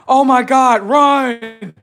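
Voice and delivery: hammed-up terrified gasp at a passerby; scared panic. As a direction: act spooked and ready to flee. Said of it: "They don't see a black person like".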